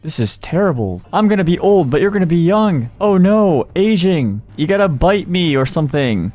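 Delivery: hammed-up teenage fretting; mock panic. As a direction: fret in an exaggerated high voice. Acting out Bella's panic about aging.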